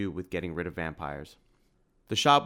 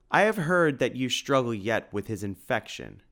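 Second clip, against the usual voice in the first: gruff growl, a bit higher, louder; bear-like gruff growl; 4 semitones higher, 4 dB louder than usual. A narrator's reading. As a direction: growl it like a big bear of a man. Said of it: "growled the man in a bear-like gruff voice".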